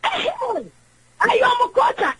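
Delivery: "court" said slowly and carefully, each sound drawn out; careful pronunciation. Shown as a demonstration. Caller correcting how the host says "court", slow and careful. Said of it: "yɛ sɛ obi bɛka sɛ court".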